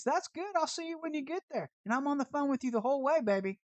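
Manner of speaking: high, sassy taunt down the phone; mock-sweet taunt, calling them baby; sassy taunt at the fleeing driver on the phone; taunting sass.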